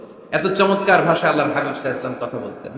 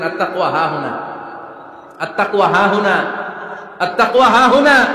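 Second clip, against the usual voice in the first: building emphasis. Shown as a demonstration. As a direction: build it up to a ringing cry. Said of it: "নাকি বলছেন". (ধাপে ধাপে জোরালো উচ্চারণ)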